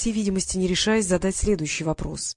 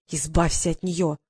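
insisting. A narrator's reading. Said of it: "продолжала настаивать Елена".

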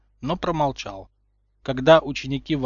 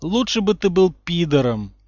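loud, higher, fed-up yell; exasperated; 5 semitones higher, 6 dB louder than usual. A narrator's reading. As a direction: vent all the frustration. Ron exasperated. (раздражённо кричит)

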